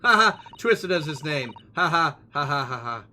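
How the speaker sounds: loud, taunting cackle around the line; mocking laugh. Player voicing a rude character, loud mocking laughter. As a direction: laugh right in his face.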